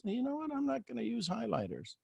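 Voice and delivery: very soft, high, small voice; like a faint voice from far off; faint distant whisper. Acted. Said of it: "this faint whisper in the distance".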